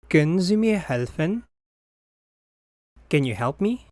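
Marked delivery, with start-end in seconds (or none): 0.1-1.4 Können Sie mir helfen said quickly with a rise on mir; a quick, natural question; natural speed. Shown as a demonstration. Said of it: "phrase said at natural speed first". (fast native-speed question)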